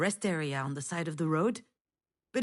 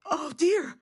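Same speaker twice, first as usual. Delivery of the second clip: high, loud mock scream of a sick child; imitating a child's scream; 8 semitones higher, 5 dB louder than usual. Mother retelling her daughter's scream by the roadside, loud and high. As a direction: recreate the kid's sudden cry, higher and louder. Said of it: "you started screaming".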